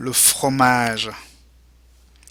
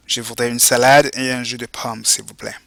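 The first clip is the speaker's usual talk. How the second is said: model phrase for repeating. Shown as a demonstration. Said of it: "go ahead and repeat".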